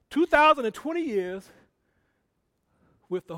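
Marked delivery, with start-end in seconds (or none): 0.1-1.5 emphatic repeat. Shown as a demonstration.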